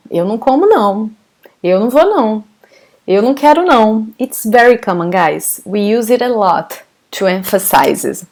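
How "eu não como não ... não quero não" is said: each "não" tagged on at the end; casual Brazilian insistence; emphatic double não. Shown as a demonstration. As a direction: repeat the "não" after every verb as emphasis. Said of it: "this sounds very Brazilian".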